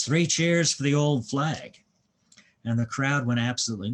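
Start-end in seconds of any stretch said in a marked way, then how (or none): 0.0-1.8 loud, high, drawn-out cheer; imitated rallying yell. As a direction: call it out like rousing a crowd. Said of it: "raises his fist and yells".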